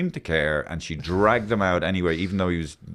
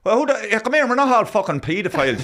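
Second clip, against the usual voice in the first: mock angry; 9 semitones higher, 3 dB louder than usual. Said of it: "in the break".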